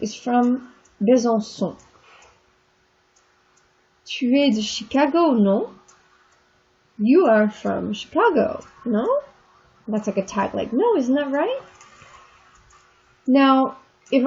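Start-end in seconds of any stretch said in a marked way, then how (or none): none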